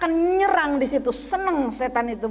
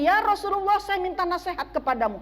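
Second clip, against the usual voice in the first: lightly voiced questioner, pitched higher; a higher-pitched, respectful request; man asking the Prophet; 5 semitones higher than usual. Man asks Rasulullah for advice, lightly voiced higher questioner. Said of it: "ditanya oleh seorang laki-laki".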